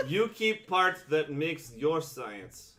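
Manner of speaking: slow, deliberate frog speech; slow frog man voice. Acted. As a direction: lay it out slowly as a frog. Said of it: "he'll say".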